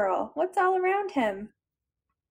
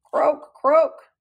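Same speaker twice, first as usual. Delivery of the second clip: louder croak, the second much louder; frog croak; 8 dB louder than usual. Acted. Storyteller voicing Frog for children, loud croak. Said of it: "said Frog".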